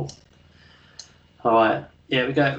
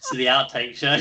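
laughing; 3 dB louder than usual. Real, not acted. Laughing at own mistake.

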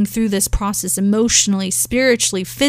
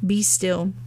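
gentle, hushed "Be still"; soft be still; 5 dB quieter than usual. Shown as a demonstration. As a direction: let "Be still" settle like a calm word. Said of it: "Also referencing great peace".

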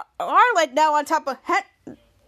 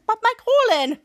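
Schwartz's whiny voice; 7 semitones higher, 4 dB louder than usual. Retold or imitated. Schwartz worried about his colon.

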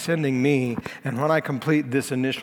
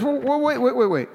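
urgent interruption; 8 semitones higher than usual. Acted. Nicodemus halts the council.

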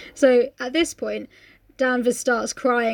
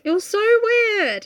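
retold disgust; 9 semitones higher, much slower than usual. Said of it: "I was like".

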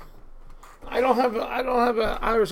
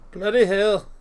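mock British oath; bad British accent. Correcting a friend's British curse, fake British accent. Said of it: "what a British accent sounds like".

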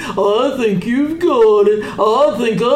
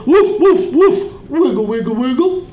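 dog woof demo. Shown as a demonstration. Dog shows Bob how to woof and wag. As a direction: bark like a dog. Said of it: "teach you how to woof".

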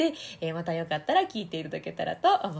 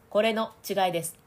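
mouth resonance; 4 dB louder than usual. Shown as a demonstration. Coach contrasting mouth resonance with nasal. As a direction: sound held in the mouth. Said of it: "声の響きの違い".

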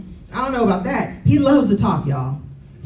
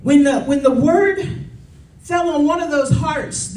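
rising preacher cadence, pitched up; full-force preaching; 3 semitones higher than usual. Acted. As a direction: preach it to the congregation.

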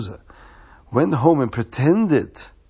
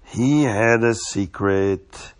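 drawn-out slow reveal; slow and hushed; 3 semitones lower, much slower than usual. Shown as a demonstration. Storyteller teases the children with a slow mysterious repeat. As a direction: let "He had a secret" hang, very slowly.

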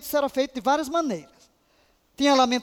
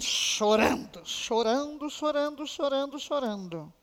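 fading; 5 dB quieter than usual. Retold or imitated. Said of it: "Minhas entranhas se movendo".

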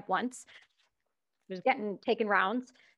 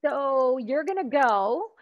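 retold order; much slower than usual. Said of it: "I got a call and they said".

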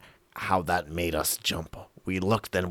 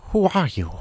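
shrill squeak; 12 semitones higher, 6 dB louder than usual. Acted. Boy confronts narrator.

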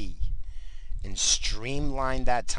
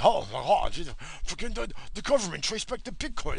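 high, mocking voice, much higher, an alarmed news report; mocking newsreader; 9 semitones higher than usual. Ranting vlogger mocks news claims, high mocking voice. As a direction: lampoon the breathless news anchor.

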